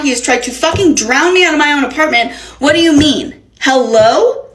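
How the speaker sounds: retold indignant tirade, emphatic words; acted outraged disbelief. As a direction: confront someone in mock-earnest exasperation. Acted angry confrontation with her landlord.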